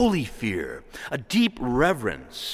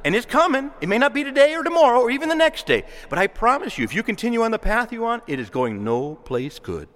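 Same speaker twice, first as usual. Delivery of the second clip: raised parental warning; 6 semitones higher than usual. Retold or imitated. Parent warning a child about their path, raised voice. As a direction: raise your voice to warn your kid. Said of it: "raise your voice and say".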